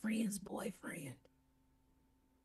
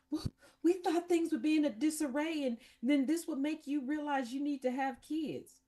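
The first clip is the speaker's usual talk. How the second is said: lightly voiced higher-pitched parents explaining themselves; a hint of parents justifying themselves; mock parents; 5 semitones higher than usual. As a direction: imitate parents making their case, pitched up. Acts out the parents' smug explanation.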